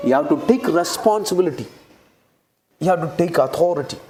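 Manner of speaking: slow, weighty English, word by word; emphatic declaration. Real, not acted. Preacher charging the congregation to take responsibility, slow and emphatic. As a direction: spell out each word as a charge.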